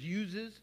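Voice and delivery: imitated Pennsylvania "uses"; Pennsylvania dialect. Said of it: "You go to Pennsylvania, there's".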